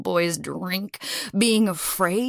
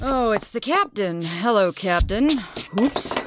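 tipsy. Acted. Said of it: "Or drunk".

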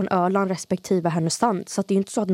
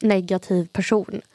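Gothenburg accent. Real, not acted. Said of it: "vad du hade göteborgsk dialekt nu".

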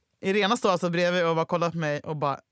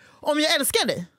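mock drunken rant; 6 semitones higher than usual. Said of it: "Du bara".

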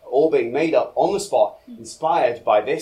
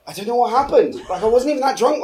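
embarrassed laugh; 9 semitones higher, 3 dB louder, faster than usual. Acted. Embarrassed apology breaking into laughter.

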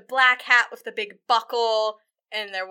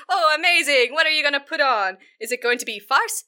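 gushing, raised-pitch excitement; eager prince; 4 semitones higher, 4 dB louder than usual. Acted. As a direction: gush like a delighted prince.

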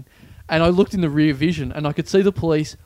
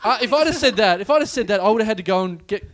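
laughing; 5 semitones higher than usual. Real, not acted. Laughs while speaking.

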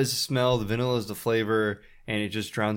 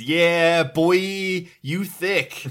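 mock bro voice; 7 semitones higher, 6 dB louder, much slower than usual. Reading out own joking comment.

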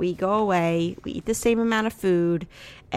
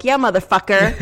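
louder imitation of an egging-on partner; mock backup yell; 8 dB louder than usual. Wife imitating husband backing her up, mock yell. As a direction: punch it out as a playful mock cheer.

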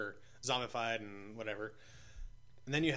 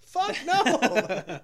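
loud exclaim; 13 semitones higher, 11 dB louder than usual. Real, not acted. Horrified at death idea.

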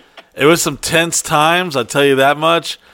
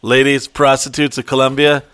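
inspirational speech; 3 semitones lower than usual. Retold or imitated. Speaker addressing the Colombian women, lower solemn pep talk. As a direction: give a solemn motivational talk. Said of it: "inspirational meeting".

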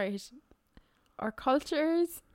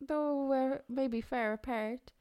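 Christopher Walken voice; 7 dB quieter, slower than usual. Retold or imitated. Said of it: "Is this Christopher Walken still".

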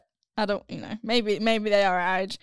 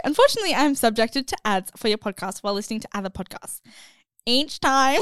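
mock whiny voice; faster than usual. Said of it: "put on a voice".

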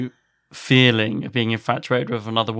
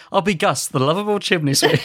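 slightly higher mock-English chimney sweep; Bart's English accent; 3 semitones higher than usual. Host quotes the chimney sweep character, light mock-English accent. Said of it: "like, English accent".

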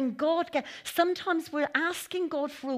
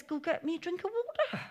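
curt order, pitched a little higher; blunt demand; 6 semitones higher than usual. Retold or imitated. Elijah telling the widow to fetch water, blunt. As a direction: bark it out like a bossy guest. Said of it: "He says".

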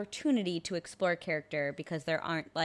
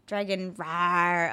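dragon roar; 2 semitones lower, much slower than usual. Pretend. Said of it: "It's like a dragon noise".

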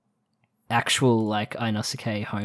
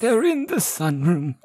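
put-on very old man; 6 semitones higher, slower than usual. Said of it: "a young guy doing an old man voice".

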